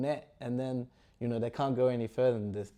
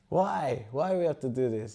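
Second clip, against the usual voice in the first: acted protest; 4 dB louder than usual. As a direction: object to an unwanted order. Bhima protests the order.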